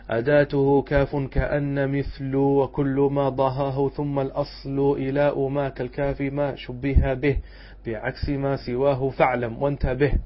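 slow, measured chant of the verse; teacher intoning the didactic poem; verse recitation. Acted. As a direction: recite the poem slowly and formally.

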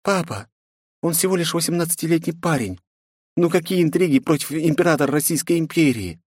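high princess voice, weary and resigned. A narrator's reading. Princess to her father, resigned. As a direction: sigh it out, giving up on him. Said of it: "обречённо произнесла".

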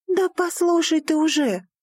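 stamp your foot and yell; shouted. Acted. Daughter to father, a shout. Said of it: "крикнула и топнула ногой".

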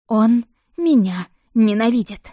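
медленно, с надрывом, громче; почти плача, растягивая; сквозь слёзы. A narrator's reading. Героиня в отчаянии, слёзы. (с дрожью боли в голосе)

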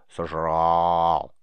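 low, loud growl on "Сожрал"; hammed-up monster voice for a friend; monster face. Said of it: "Риз сделал страшную рожу".

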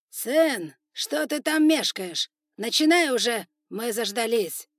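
loud, high, slow mocking call; impatient shout. Spider lord calling out to his son, impatient shout. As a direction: jeer at him impatiently.

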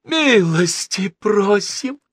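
high, drawn-out ecstatic welcome; effusive high-pitched cry. A narrator's reading. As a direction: wail the welcome with huge enthusiasm. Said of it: "возопил Стажен Фиц".

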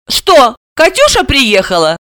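high, drowsy woman's question; half-awake voice; sleepy, yawning. A narrator's reading. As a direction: ask it through a yawn. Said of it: "сонная Сима, зевая, спросила".

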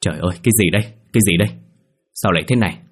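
a shaky, horrified outburst at the gore; trembling scream. Acted. Mai finding the bloody room, frightened cry. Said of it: "run rẩy hét lớn".

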